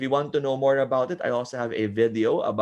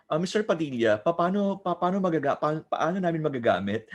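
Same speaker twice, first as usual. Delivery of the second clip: lightly voiced student, higher, stammering; student asking; 5 semitones higher, faster than usual. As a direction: stumble into a student's puzzled question.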